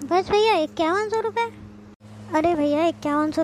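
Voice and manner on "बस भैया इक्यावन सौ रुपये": can't believe it's only that much; disappointed surprise. Acted. Sister disappointed at gift money. (निराश होकर हैरानी से)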